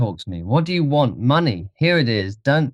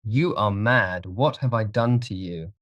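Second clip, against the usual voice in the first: softer, alarmed protest; frightened disbelief; 3 semitones higher, 4 dB quieter than usual. Acted. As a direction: plead bewildered with your attacker. Dorian pleads with gunman.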